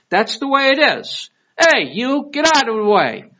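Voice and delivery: high, loud and direct demand; blunt Northerner. Retold or imitated. Blunt Northerner ordering someone out of the way, loud and direct. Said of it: "In the North, they tell you like it is".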